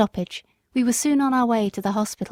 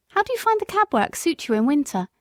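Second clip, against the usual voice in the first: higher, delighted recognition; surprised lady; 5 semitones higher than usual. Acted. Former mistress recognises Jerry, pleasantly surprised. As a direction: greet an old friend gladly. Lady's voice.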